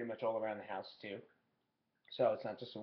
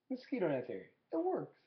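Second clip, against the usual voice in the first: works jumps high at the end; high sing-song works; 5 semitones higher than usual. Shown as a demonstration. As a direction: lift it works way up, playful.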